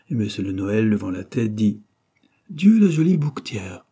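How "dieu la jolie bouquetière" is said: s'exclame, bien plus haut et fort; ébahi devant une jolie fille; exclamation ravie. Acted. Ébloui par la jolie fleuriste. (monsieur le Noël s'extasie devant la bouquetière, exclamation)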